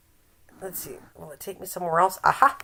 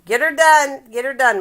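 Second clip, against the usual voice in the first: cheer; 6 semitones higher, 6 dB louder than usual. Pretend. Cheering Mike to sew.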